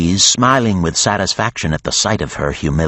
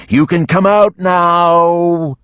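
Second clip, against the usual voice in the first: higher, louder dragon call; coaxing dragon; 12 semitones higher, 5 dB louder, much slower than usual. A narrator's reading. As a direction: lure her out like a beast. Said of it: "it said".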